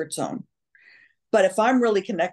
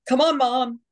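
imitated children; 6 semitones higher than usual. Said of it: "my ex-husband and my children going".

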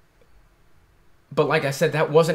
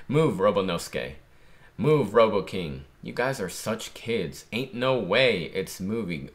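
reading manga aloud; 2 semitones lower than usual. Acted.

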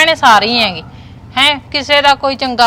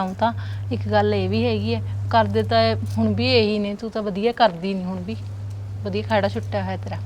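much softer, confiding tone; hushed gossip; 10 dB quieter than usual. Acted. Two women trading hushed gossip about the household. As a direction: drop your voice to share gossip.

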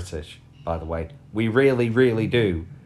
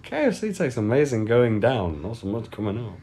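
mock quotable line. Real, not acted. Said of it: "quote section".

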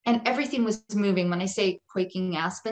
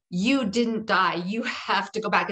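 commanding. Retold or imitated. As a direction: firmly order someone back, word by word. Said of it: "very commanding in that moment".

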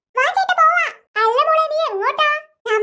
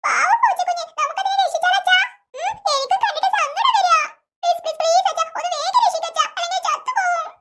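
put-on higher little girl begging dad, worried; pleading little girl; 3 semitones higher than usual. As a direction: plead like a small girl for the kitten. (കൊച്ചു പെൺകുട്ടിയുടെ കെഞ്ചുന്ന ശബ്ദം)

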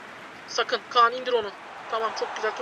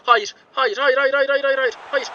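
panicked repeated no; 4 dB louder than usual. Real, not acted. Chance conceded, repeated no.

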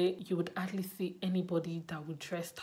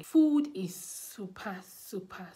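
excited; 5 dB louder, slower than usual. Real, not acted. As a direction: stretch it out with delight. Excited about cheap food.

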